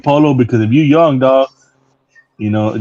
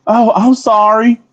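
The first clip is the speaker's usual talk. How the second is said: mimicking the greeter; 8 semitones higher, much slower than usual. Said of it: "but I speak English".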